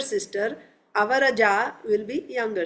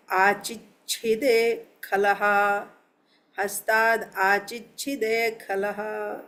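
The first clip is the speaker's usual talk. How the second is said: measured Sanskrit chant, slowing towards the end; slow, level scriptural recitation; verse recitation; slower than usual. Real, not acted. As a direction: recite the verse with drawn-out syllables.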